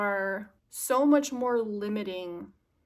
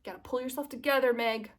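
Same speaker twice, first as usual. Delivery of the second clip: fast, slightly higher self-scolding; self pep talk; 4 semitones higher, faster than usual. Retold or imitated. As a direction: rattle it off like a mock order to yourself. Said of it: "I told myself".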